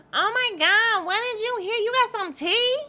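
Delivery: high, loud squeal of nosy excitement; hammed-up, eager imitation of a gossip; mock excited gossip. Mimics Britt's eager nosiness.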